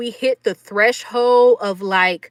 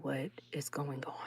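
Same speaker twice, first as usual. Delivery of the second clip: breathless unvoiced whisper, much softer; shocked whisper; 8 semitones lower, 21 dB quieter than usual. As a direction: whisper it in disbelief. Alone, stunned in the moment.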